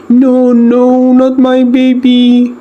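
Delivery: high, slow anguished cry; pleading no not my baby, high and drawn out. A narrator's reading. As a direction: wail it in disbelief. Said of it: "she cried".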